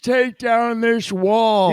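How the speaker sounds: put-on very slow, whistling old man; whistly old man voice. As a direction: drag it out like a frail grandpa. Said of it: "do the whistly old man".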